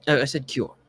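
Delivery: British character explaining a misheard word; lightly played British accent. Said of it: "my British accent makes the R hard".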